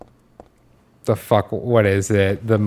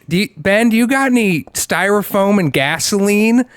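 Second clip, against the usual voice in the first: put-on kid voice; 8 semitones higher than usual. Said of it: "her child was like".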